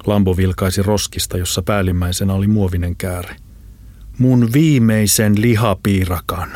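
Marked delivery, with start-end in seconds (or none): 4.2-6.5 indignant. Acted. Lambo outraged over his last pie.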